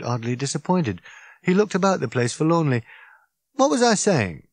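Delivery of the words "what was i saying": raised, lively Ford voice; a wound-up alien rambling on; Ford, tipsy and indignant; Ford, excited. Acted. Ford lost in thought.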